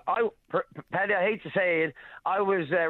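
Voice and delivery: halting, stuttering start. Real, not acted. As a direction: stutter and stumble over words. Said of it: "I'm stuttering a little bit".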